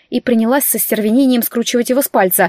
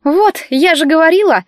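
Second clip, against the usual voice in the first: higher, louder triumphant crow; high, loud triumphant I-told-you-so; 6 semitones higher, 4 dB louder than usual. A narrator's reading. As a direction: gloat that she was right. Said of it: "торжествующим тоном ответила".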